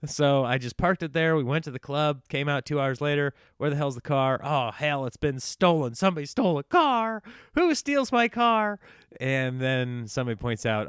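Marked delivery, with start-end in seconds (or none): 3.6-8.8 building from puzzled to high, loud alarm; rising panic. Retold or imitated. Student finding his car missing, panic building up. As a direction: panic more with each line.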